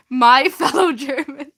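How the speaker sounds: cracking up mid line; laughing through it. Acted. Starting the dictator's speech, breaking into laughter. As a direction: try to stay serious but laugh.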